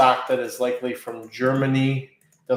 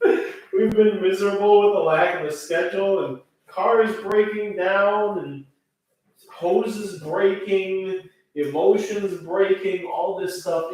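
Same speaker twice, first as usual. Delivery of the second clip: laughing; 7 semitones higher than usual. Real, not acted. Laughing about hard times.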